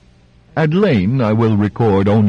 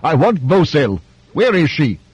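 roaring tyrant king; 6 semitones higher than usual. Acted. King still bellowing.

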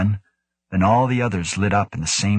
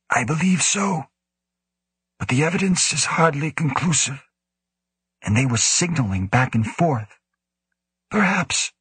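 put-on raised, measured old director voice; cautious director; 7 semitones higher than usual. A narrator's reading. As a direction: hedge it in a higher, careful voice. Woe answers cautiously.

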